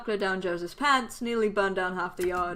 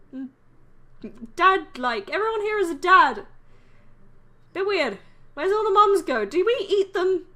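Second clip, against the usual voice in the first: high, loud, puzzled remarks; incredulous; 8 semitones higher, 6 dB louder than usual. Acted. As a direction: voice climbing on each baffled question. Acting baffled new neighbour.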